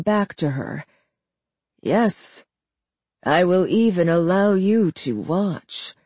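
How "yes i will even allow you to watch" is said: smirking. Acted. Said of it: "he said with a smirk".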